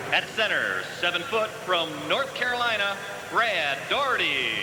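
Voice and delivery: booming arena PA voice; echoing stadium announcer. Real, not acted. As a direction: announce over the arena speakers. Arena PA announcer intro, reverb.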